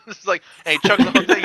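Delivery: usual speaking voice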